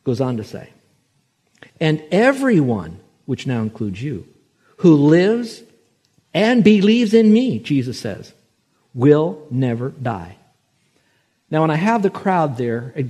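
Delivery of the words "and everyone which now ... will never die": proclaiming scripture. Acted. Preacher quoting Jesus to the crowd, fervent. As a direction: ring the verse out.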